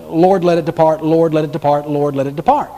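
mock rote repetition, barely varied; rote repeated prayer. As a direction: recite it three times on one level. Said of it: "does not mean that he said three times".

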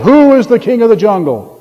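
hammed-up boast, stretching WHO; mock lion roar. Lion demanding answer from monkey, lightly acted roar. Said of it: "roared in the monkey's face".

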